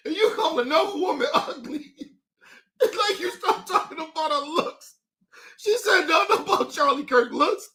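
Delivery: talking through real laughter; crying with laughter. Real, not acted. Mocking a woman's looks-based insult, laughing hard. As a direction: struggle to get it out while laughing. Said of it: "Y'all done got me crying".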